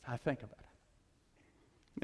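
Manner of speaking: wife drawing out her answer slowly; slow and cool. Retold or imitated. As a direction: make him wait for it. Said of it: "She goes".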